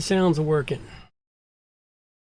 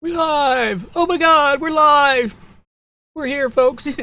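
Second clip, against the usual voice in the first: high squeaky excited voice; 11 semitones higher, 5 dB louder, slower than usual. Acted. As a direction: squeak it out like a cartoon. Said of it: "Except for your strange, strange voice".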